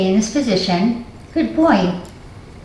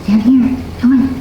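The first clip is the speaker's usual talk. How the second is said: firm command. Real, not acted. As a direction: tell the dog firmly to lie down. Commanding the dog firmly.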